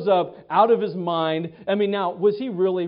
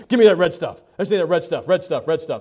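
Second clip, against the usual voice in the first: louder insistent begging for red stuff; loud greedy plea; 6 dB louder than usual. Retold or imitated. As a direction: grab at the food with your voice. Starving Esau begging Jacob.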